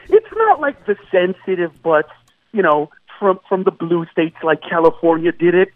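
usual speaking voice

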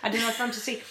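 a touch of mock German; German accent. Shown as a demonstration. Showing off a German accent to the co-hosts, lightly done. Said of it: "this is my German accent".

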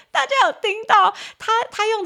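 high, loud, breaking-up laugh voice; talking through laughter. Real, not acted. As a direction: squeeze the words out while laughing. Still laughing at eggplant answer.

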